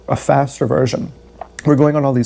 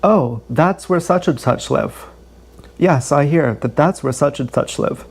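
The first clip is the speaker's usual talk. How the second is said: sarcastic parroting. Retold or imitated. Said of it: "what I wanna say is".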